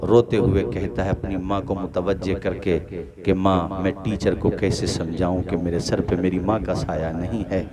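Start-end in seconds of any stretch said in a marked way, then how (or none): none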